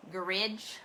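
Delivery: "Garage" as "GARR-idge", stress up front; British "Garage". Shown as a demonstration. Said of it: "that's how they say it here".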